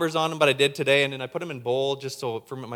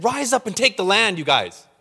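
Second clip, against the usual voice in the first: voice of God; 5 semitones higher, 6 dB louder than usual. Acted. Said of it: "He said".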